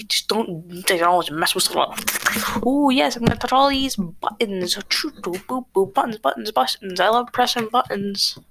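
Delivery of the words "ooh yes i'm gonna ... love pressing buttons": mock excited astronaut. Mocking astronauts in movies.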